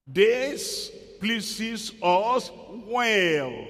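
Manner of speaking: very slow, stretched, self-satisfied; smug drawn-out reply. Retold or imitated. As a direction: savour it like a smug congregation. Members' self-satisfied reply mimicked.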